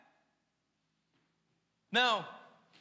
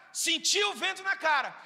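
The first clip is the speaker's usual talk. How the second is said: shouted answer; 4 semitones higher than usual. Shown as a demonstration. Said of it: "resposta enfática".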